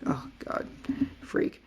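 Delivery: whispered, soft aside of disgust. Retold or imitated. Viewer recoiling from a creepy scientist, disgusted whisper. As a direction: breathe it out like you're creeped out.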